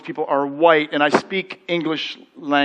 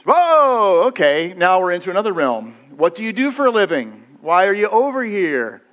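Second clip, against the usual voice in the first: clerk curious; 4 dB louder than usual. Retold or imitated. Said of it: "clerk reacts".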